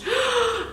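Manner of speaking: very high gasp of delight. Real, not acted. Seeing the turquoise shade, high gasp. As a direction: gasp at the bright colour.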